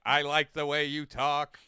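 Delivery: deliberate alien drawler; Alien Sling Blade. Acted. Friends riffing on alien monologues, Alien Sling Blade voice. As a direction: intone it like a deadpan alien drawler. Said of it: "Alien Sling Blade".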